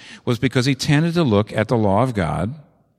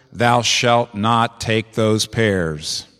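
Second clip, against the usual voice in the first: solemn commandment; much slower than usual. Retold or imitated. Voicing a commandment.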